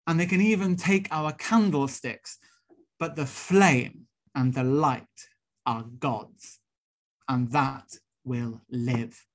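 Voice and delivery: an understated, slow, near-tearful build of righteous feeling; a minister holding back tears, slowing and softening to the end; fighting back tears. Retold or imitated. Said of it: "bursting with righteous anger and fighting back tears".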